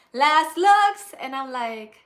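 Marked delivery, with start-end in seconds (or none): 0.1-1.1 very loud, high-pitched yelled call. Speaker retells someone on set yelling out a call, retelling a yell. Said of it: "or yelled rather".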